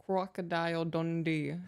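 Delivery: slow, attempted Aussie accent; careful try at Australian vowels. Shown as a demonstration. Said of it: "Was that good?".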